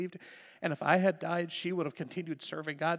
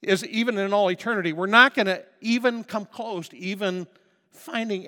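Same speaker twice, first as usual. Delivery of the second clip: preaching loud; 6 semitones higher, 10 dB louder than usual. Real, not acted. Preacher building.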